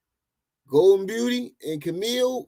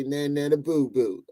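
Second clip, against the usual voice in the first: Charleston White impression. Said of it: "like Charleston White when he say".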